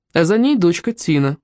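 ordinary delivery

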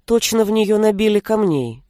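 usual speaking voice

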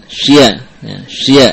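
"sya" with a Y glide after the SH; inserted Y. Shown as a demonstration. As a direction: say "sya" as sh-ya, the mistake. ("sya" disisipi bunyi ya)

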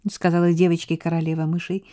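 ordinary delivery

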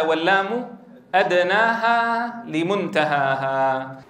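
slow, chanted recital of the verse; verse recitation. Shown as a demonstration. Teacher reciting the poet's verse on lam to students. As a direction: recite the line slowly, drawing out each word. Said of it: "قال فيه الناظم".

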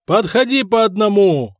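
loud, high command to the crowd; shouted order. A narrator's reading. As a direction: bark the order over the crowd. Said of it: "заорал Виттерих".

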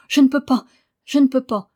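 high, loud helpless protest; gasping, tearful. A narrator's reading. Boy pleading he cannot stop, high mock-tearful cry. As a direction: wail it in lightly acted distress. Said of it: "haleta-t-il en sanglotant".

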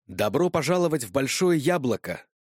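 loud, high and wild, tipsy; loud manic. A narrator's reading. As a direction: shout it like a giddy drunk woman. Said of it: "громко сказала она и безумно захохотала". (громко и безумно)

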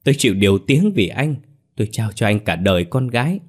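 lightly voiced wronged young lover; bitter reproach, pitch lifting on some phrases; Ngọc trách móc. (giọng oán trách)

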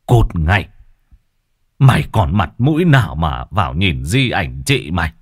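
stern telling-off; angry scolding. Acted. Brother-in-law turning a disgraced relative away, angry scolding. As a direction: order her away with contempt. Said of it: "Này thấy ông Toàn chửi mắng".

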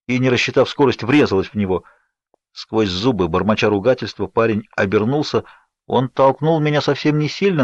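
plain reading voice

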